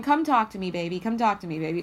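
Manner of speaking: loud, teasing come-on to a lover; coaxing come-on. Retold or imitated. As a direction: lure them in, loud and playful. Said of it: "that's the intonation I'm hearing".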